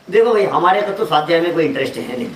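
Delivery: low, quick, affable mock refusal; प्यार से. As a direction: act out a sweetly casual brush-off, pitched low. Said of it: "कितना प्यार से बोल रहा है". (प्यार भरी धीमे सुर की बात)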